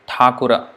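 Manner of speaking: "Thakura" ending on a sounded final a; Sanskrit Thakura. Shown as a demonstration. Teacher giving the full Sanskrit Thakura, clear. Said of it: "In Sanskrit".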